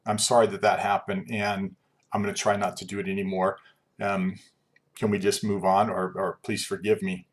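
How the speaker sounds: softening, understated sincere apology; heartfelt apology. Shown as a demonstration. Teacher showing a real apology as opposed to oops, heartfelt. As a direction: apologize earnestly, easing down toward the end. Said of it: "that is heartfelt and emotional".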